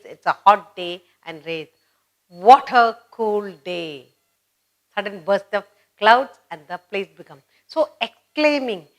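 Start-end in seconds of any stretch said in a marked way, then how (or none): 2.3-4.1 loud and slow, leaning on "what a"; relieved exclamation. Retold or imitated. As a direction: welcome the sudden rain after a hot day. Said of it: "suddenly it rains".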